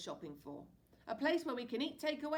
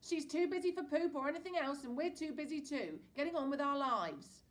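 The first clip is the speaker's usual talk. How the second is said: loud, higher stern refusal; snorting dad; 9 semitones higher, 9 dB louder than usual. A narrator's reading. Dad to son about Pearl, loud annoyed snort. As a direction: shut it down hard. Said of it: "snorts Dad".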